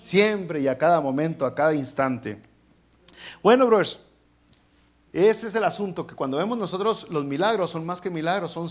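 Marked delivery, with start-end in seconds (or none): 3.4-4.0 high, loud "Bueno, brothers"; rally the room; preacher calling out to the congregation. Real, not acted.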